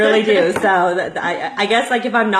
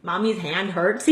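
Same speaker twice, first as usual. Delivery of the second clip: mock whimper; 4 dB quieter, much slower than usual. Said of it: "I can't be like".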